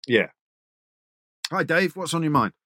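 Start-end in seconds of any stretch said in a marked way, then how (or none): 1.5-2.5 radio host greeting. Pretend. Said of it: "you're on, and I'm ringing in".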